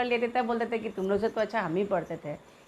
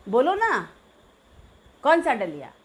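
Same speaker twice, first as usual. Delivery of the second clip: scolding; 2 semitones higher, 5 dB louder than usual. Retold or imitated. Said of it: "डांट के हमको बोला".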